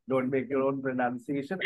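slow, soft, spelled-out warning; teacher slowly stressing the advice; slow emphatic advice. Shown as a demonstration. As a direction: say each word slowly to drive it home. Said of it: "आपको ये advice आपके लिए भी है".

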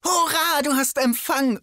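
high, excited cheer. Acted. Narrator cheering that Arnold has phone signal, high excited. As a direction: celebrate the lucky break.

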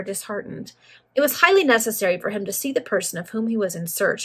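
ordinary delivery

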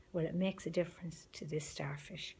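soft, breathy whisper. A narrator's reading. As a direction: lean in and whisper the moral. Quiet punchline of the starfish story.

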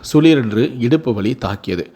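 measured, expressive storytelling voice; story narration. A narrator's reading. Narrator tells listeners of a couple's first baby, measured storytelling. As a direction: read it as an unhurried family story.

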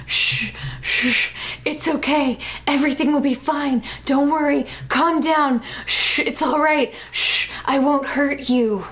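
hushing someone who is crying; acted comforting with repeated shushes; mock soothing. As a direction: shush and reassure, hammed-up. Kidnapper soothing a crying girl.

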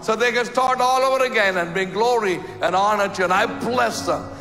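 fervent pastor's prayer over the congregation; closing prayer. Acted. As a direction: pray over them, rising and falling with music.

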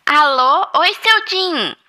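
high, loud phone hello; bright phone greeting. Acted. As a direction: sing out the greeting. Maid answers phone.

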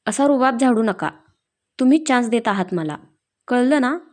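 a hint of irritated scolding; understated cross warning; mildly angry. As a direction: tell him off, lightly. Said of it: "चिडूनच म्हणाली".

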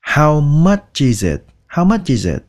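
slow, every word pronounced separately; each word clear. Shown as a demonstration. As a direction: say each word distinctly, learner style. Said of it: "cố gắng đọc chữ nào ra chữ đó nha". (đọc chậm, chữ nào ra chữ đó)

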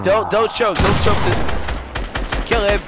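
loud, drawn-out urgent pleading; hyped gamer bro. Real, not acted. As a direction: push them hard to finish the kill. Tense clutch moment in game.

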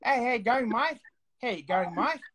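mock Australian accent greeting; Australian guy impression. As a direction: imitate an Aussie bloke's casual hello. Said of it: "the guys would be like".

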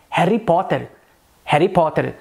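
"Harry Potter" with rolled Indian Rs; Indian-accented example sentence; Indian English accent. Shown as a demonstration. Teacher demonstrating the R for learners, Indian accent. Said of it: "no inglês indiano".

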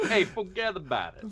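put-on Jersey Guido accent. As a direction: lay on a thick stereotypical Jersey accent. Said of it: "This is a Jersey accent".

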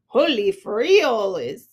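loud startled cry; loud mock alarm. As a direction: blurt it out, shocked. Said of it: "cried Skipito".

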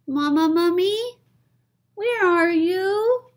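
put-on high, loud little-kid call; calling child. Baby mummy calling out.

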